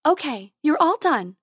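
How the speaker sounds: high bright fairy voice; sweet high tooth fairy. Acted.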